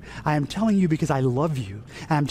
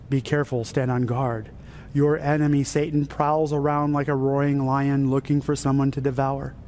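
stern warning. Acted. Saint Peter warns believers about the prowling enemy, stern warning. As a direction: warn them sternly, keeping the pitch down. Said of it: "says very, very sternly".

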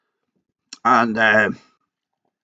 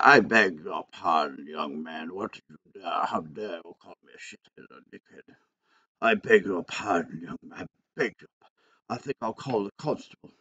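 prissy strict schoolteacher voice; 4 semitones lower, 5 dB quieter than usual. Retold or imitated. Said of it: "And I said".

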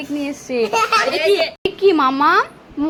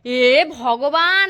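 exasperated sigh; 3 semitones lower, much slower than usual. Real, not acted. Kid brushing teeth wrong.

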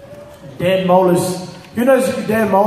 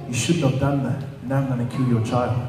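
lightly voiced demonic threat, lower in pitch; possessed woman; 5 semitones lower, 5 dB quieter than usual. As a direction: imitate a quiet, low menace.

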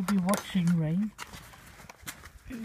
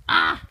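short, loud yelp; cold yelp; 7 dB louder than usual. Real, not acted. Touching cold snow with bare fingers, loud yelp.

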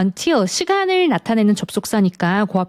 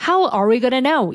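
very slow, each word separate; unlinked careful version; 4 semitones higher, much slower than usual. Shown as a demonstration. Teacher showing the acceptable slower version. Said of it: "이렇게 하셔도 틀리지는 않고요".

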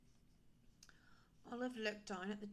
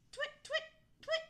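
high, loud little owl hoots; short sharp hoots; owl calling; 9 dB louder than usual. A narrator's reading. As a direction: call out in quick high owl chirps. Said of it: "called Olive, trying again".

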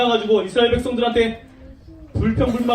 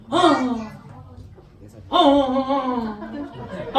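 long drawn-out groan of annoyance; acted grumbling "aah", stretched out; whiny groan; much slower than usual. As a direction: groan in mock exasperation. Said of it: "짜증, 원망했어요".

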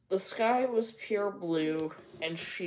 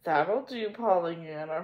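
stern. Acted. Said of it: "her aunt replied sternly".

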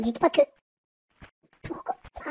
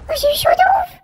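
relieved exclamation; 10 semitones higher, 3 dB louder, faster than usual. Real, not acted. Relief after narrow escape.

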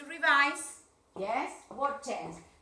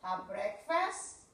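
slow, softer repeat; slow model; 5 semitones lower, 3 dB quieter, much slower than usual. Shown as a demonstration. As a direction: repeat it slowly, syllable by syllable. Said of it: "Dictame voz". (lento, para repetir)

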